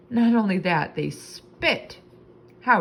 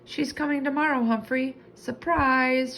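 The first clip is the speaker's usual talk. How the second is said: put-on 1 excited girl; 8 semitones higher than usual. A narrator's reading. Excited girl shares news.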